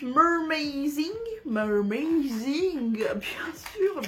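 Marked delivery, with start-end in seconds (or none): 0.0-2.9 slow, savoring the name; drawn-out name. Real, not acted. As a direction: stretch the name out lovingly. Reading product name dramatically.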